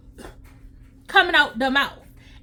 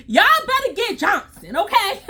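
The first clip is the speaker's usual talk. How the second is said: laughing; 6 semitones higher than usual. Real, not acted. Laughing at retold line.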